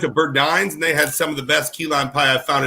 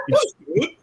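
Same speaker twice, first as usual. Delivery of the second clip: mock exclaim. Retold exclaimed reply.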